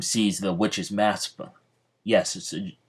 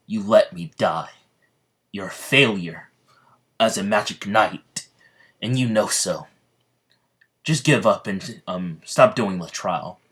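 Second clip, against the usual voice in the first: stern scolding; 4 dB louder than usual. Acted. Wizard King scorning Yami.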